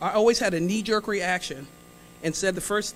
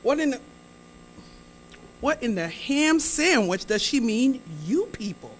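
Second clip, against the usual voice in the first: indignant; 4 semitones higher than usual. Retold or imitated. Comic telling the crowd how the remark offended her, indignant. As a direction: bristle at the insult. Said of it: "poked my inner black bitch".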